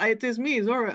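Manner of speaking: a hint of a hammed-up Spanish accent as Zorro; mock Zorro accent. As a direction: lightly play the masked hero with a put-on Spanish accent. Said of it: "terrible accent thing".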